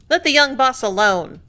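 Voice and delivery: a rough-voiced worker backing the boss; workman in the crowd. Workman in the crowd defending Benway, loud rough voice. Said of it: "one said".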